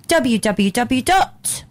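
slow, drawn-out letters; slow spelled out. Shown as a demonstration. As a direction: spell it out slowly. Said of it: "World Wide Web".

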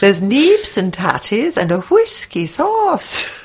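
slow, drawn-out mock Scottish; bad Scottish accent. Shown as a demonstration. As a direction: stretch the words in a put-on Scottish accent. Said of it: "That is my Scottish accent".

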